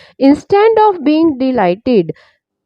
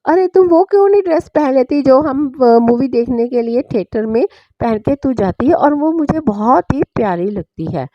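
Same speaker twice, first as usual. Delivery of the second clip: nervous, trembling. Acted. Nervous husband suggests his wife wear her theatre dress, flustered. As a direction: blurt it out anxiously. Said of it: "घबराते हुए, उसकी आवाज़ कांप के बोली".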